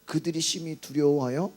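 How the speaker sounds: measured, emphatic verse recitation; scripture reading. Real, not acted. Preacher reading verse forty-one with congregation, measured recitation. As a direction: read it out firmly, phrase by phrase. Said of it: "사십일 절도 읽어봅시다".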